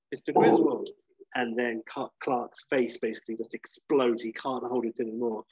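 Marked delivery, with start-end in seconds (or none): 0.1-0.9 breathy flirt. Retold or imitated. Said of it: "she maybe says something like".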